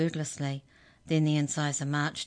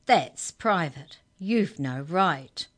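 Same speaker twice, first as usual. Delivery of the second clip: louder, slow, clipped outrage; indignant; 5 dB louder, much slower than usual. Acted. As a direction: bite off each word, louder. Girl defends diary, furious.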